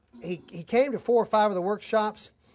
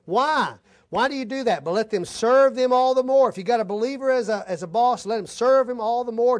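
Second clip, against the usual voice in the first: louder, higher preaching push; 4 semitones higher, 7 dB louder than usual. Real, not acted. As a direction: exhort the congregation at full force. Preacher raises voice to exhort.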